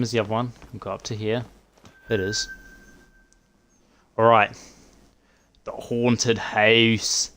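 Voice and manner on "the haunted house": very slow, loud spooky announcement; spooky announcer. Pretend. Gamer announcing the haunted house spookily. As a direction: draw it out like a ghost story.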